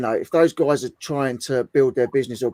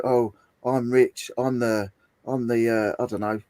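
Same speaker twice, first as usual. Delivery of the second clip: mock TV persona. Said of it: "if they're saying you've got to say you're this".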